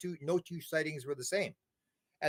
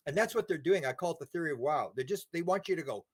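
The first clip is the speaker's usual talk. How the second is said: ordinary delivery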